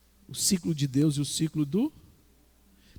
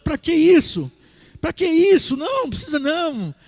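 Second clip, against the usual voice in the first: mock devil taunting, pitched higher; tempter from afar; 6 semitones higher than usual. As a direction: call out the temptation from a distance. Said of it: "o outro fala de longe assim".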